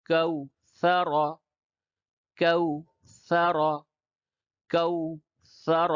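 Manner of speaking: slow, drawn-out letter-by-letter drill; spelling-out recitation. Shown as a demonstration. Teacher spelling out Qaida words for learners, slow recitation. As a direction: spell each syllable, then repeat the joined word slowly. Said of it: "تو پہلے ہجے کر کے پڑھتا ہوں".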